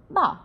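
bảo started high and dropped down, Mandarin bào; bảo falling sharply from high. Shown as a demonstration. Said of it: "Cao lên ha, giơ trên cao xuống".

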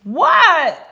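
high, falling "what"; high, abrupt reply; startled shout back. A narrator's reading. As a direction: call back across the field. Froggy answers the coach's yell.

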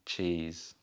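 "cheese" with a sharp ch; "cheese" begins with a ch stop. Shown as a demonstration. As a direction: start "cheese" with a crisp ch. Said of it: "es diferente".

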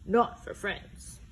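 slow whispered confidence; whispered aside. Acted. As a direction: whisper it tenderly. Bear confides warmly.

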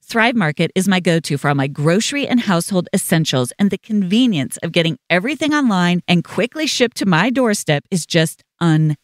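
upbeat, steadily projected sponsor read. Acted. Host endorsing a grocery service to listeners, ad read. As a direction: sell it like a personal endorsement.

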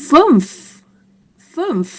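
"fünf" high and falling, closing on audible f; German fünf demonstration. Shown as a demonstration. Teacher introduces German five, high falling "fünf" with final f. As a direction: model "fünf" carefully for learners. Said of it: "ออกเสียงว่า".

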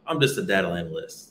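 imitating someone shrugging off their own job; downplayed job title. Retelling a new acquaintance's modest answer about work, downplayed. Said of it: "why you say it like that".

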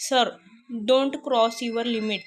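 slow, firm mock-angry warning; angry rebuke. Shalini scolding her boss Anil, slow and stern. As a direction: set a boss back in his place, measured and stern. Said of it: "Shalini रागाने त्याच्यावर ओरडली".

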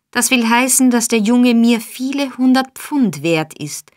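put-on old fence raging at Nancy over the boy; furious shout. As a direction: let the fury burst out. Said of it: "schrie Fagin sinnlos vor Wut".

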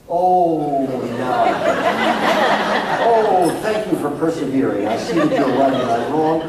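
hammed-up grateful child, loud at the start; mock the child's impossible apology; sarcastic mock gratitude. Parent mocking a child's imagined thanks, sarcastic. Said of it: "this child is suddenly gonna say".

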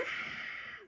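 small soft mock scream; half-hearted little 'ah' of a scream. A narrator's reading. Child swarmed by bees, mild acted scream. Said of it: "I scream".

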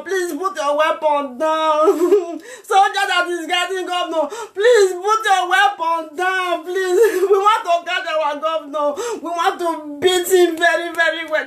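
tearful plea. Real, not acted. Begging the governor's guards to disarm, crying and laughing. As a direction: plead with them, crying and laughing at once.

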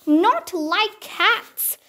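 a little creature outraged at the very idea; shrill passionate mouse. Acted. The offended mouse answers Alice, shrill and slow. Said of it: "in a shrill, passionate voice".

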